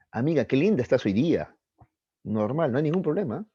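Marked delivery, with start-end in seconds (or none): 0.1-1.5 higher, lilting compliment; lightly gushing, with a singsong lift; complimenting a friend. Acted. Girl tells her friend pretty things, mildly gushing. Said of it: "le dicen cosas bonitas".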